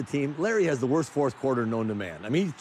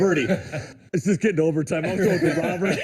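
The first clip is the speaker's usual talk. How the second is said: laughing plea; 4 semitones higher, 3 dB louder than usual. Retold or imitated. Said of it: "I'm like".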